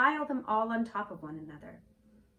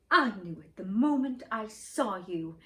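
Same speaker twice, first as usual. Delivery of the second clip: a touch louder, eager cry; eager exclamation; 4 dB louder than usual. A narrator's reading. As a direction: blurt it out, proud to be right. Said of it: "exclaimed the prince".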